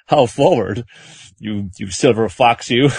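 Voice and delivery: lightly voiced coquettish old lady, drawn out; slow, playful mock flirting.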